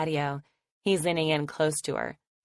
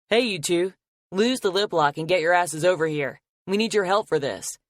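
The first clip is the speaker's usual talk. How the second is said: yelling across the yard; 3 semitones higher, 5 dB louder than usual. Acted. Sawyer calls the kissing couple across the yard, loud yell. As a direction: holler them over, teasing. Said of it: "Sawyer yells from across the yard".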